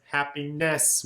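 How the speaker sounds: "happiness" with the last syllable pushed; stress on last syllable. Shown as a demonstration. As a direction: lean on the end of "happiness". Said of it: "we kind of emphasize the last bit".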